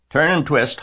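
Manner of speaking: high, loud honked call; goose honking. A narrator's reading. Goose directs fleeing Wilbur, honking. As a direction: honk out the advice. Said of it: "honked the goose".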